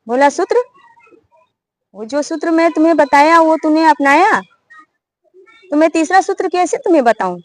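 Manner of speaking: hint of a mocking bird scolding the hunter.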